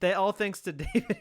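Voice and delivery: laughing. Real, not acted. Laughs mid-sentence.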